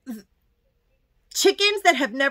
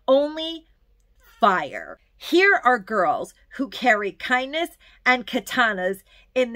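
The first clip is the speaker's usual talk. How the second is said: poem reading; 3 semitones lower than usual. Acted. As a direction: read it like a poem you love, savouring each line. Reads poem aloud from book.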